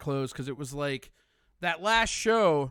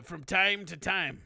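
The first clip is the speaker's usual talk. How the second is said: slow wrestler catchphrase; slower than usual. Retold or imitated. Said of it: "And the".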